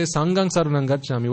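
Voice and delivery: "Sanghang" with a plain g; mispronounced "Sanghang". Shown as a demonstration. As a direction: say "Sanghang" as sang-gang. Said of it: "It's not".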